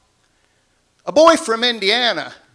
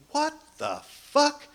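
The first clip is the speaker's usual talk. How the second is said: higher, slow, startled what the fuck; shocked wife; 9 semitones higher, 6 dB quieter, slower than usual. Retold or imitated. Wife stunned by her naked husband, high and slow. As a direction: play the baffled wife.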